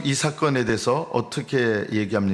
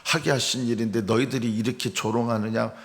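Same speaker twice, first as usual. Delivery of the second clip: acted indignation. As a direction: imitate someone bristling at being mocked. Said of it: "분노와 혈기로".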